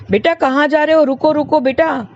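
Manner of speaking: put-on high anxious call after a running child. Mother calls her son running off into the crowd, high worried call.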